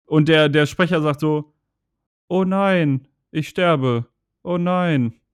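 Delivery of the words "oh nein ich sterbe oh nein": mock dying line, said with no emphasis at all; emotionless dub voice. Gamer mocking the German dub's dying hero, deadpan. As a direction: parody a bored voice actor reading a death scene. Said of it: "Die Betonung fehlt komplett".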